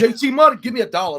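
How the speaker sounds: high, loud shout of a nickname; calling out. Retold or imitated. High school kids hail him with a high, loud shout. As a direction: holler across the hall. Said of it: "It's like".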